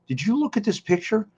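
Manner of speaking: high, loud retold outcry; mock indignation. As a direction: imitate an appalled complaint, drawing out the end. Retells wrestler's reaction to photo.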